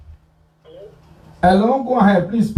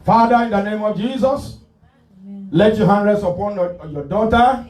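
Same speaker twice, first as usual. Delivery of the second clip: fervent preaching prayer; 3 semitones higher than usual. Acted. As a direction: pray over her with conviction. Pastor prays over caller.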